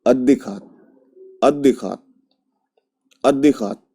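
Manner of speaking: अद्दिखात with the t voiced to d, run together; अद्दिखात in one flow; voiced and joined. Shown as a demonstration. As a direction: blend it into अद्दिखात. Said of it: "जब इसको पढ़ेंगे तो क्या हो जाएगा".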